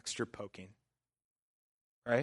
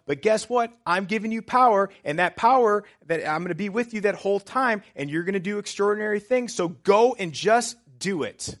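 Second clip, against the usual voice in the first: emphatic; 8 semitones higher, 10 dB louder than usual. Retold or imitated. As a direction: build into forceful, high-pitched exhortation. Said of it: "Jesus is pretty emphatic when he says".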